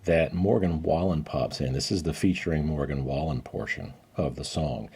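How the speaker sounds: hushed voice-over aside; quiet dubbed-in narration; editor voice-over. Real, not acted. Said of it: "This is your editor speaking".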